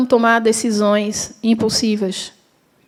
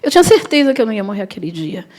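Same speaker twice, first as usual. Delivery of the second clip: ordinary delivery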